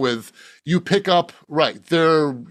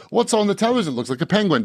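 Monty Python; 2 semitones higher, faster than usual. Acted. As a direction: quote a British sketch in a Cambridge English accent. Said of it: "I grew up quoting Monty Python".

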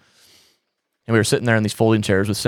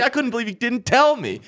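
high, giggling dad imitation; laughing quote; 14 semitones higher than usual. Dad surprised by the fish funeral, said laughing.

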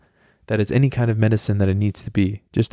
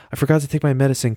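higher, hurried plea to mom; acting out a child asking to be fetched; pleading kid on phone; 4 semitones higher, much faster than usual.

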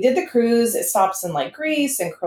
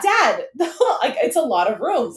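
laughing exasperation; 6 semitones higher than usual. Retold or imitated. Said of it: "I'm like".

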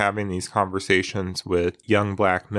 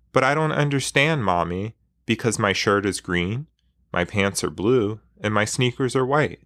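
put-on pitiful child. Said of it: "just as pitiful as could be".

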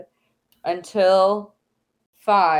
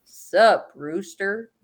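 curt rooster greeting; much slower than usual. Shown as a demonstration. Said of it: "Or what do you say?".

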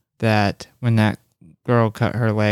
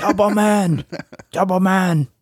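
silly voice; 8 semitones higher than usual. Pretend. Joking reply, high odd voice.

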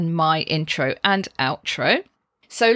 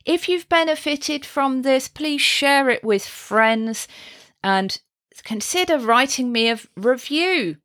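higher-pitched, upbeat podcast sign-off; lightly performed voiceover sign-off; voiceover outro; 4 semitones higher than usual. Shown as a demonstration. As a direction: read it like a professional outro thanking listeners. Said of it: "or professional voiceover artists saying".

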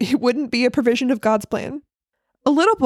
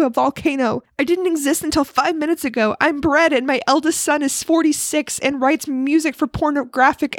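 shouting bread; 4 semitones higher than usual. Acted. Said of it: "the bread is shouting back".

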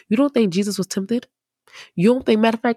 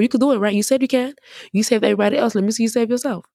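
mocking taunt. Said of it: "They mocking him".

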